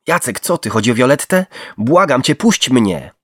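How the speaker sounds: high, loud frantic begging; whimpering for mercy. A narrator's reading. Bound victim begging Jacek to let him go, whimpering. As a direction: plead for your life. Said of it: "skomlał o litość".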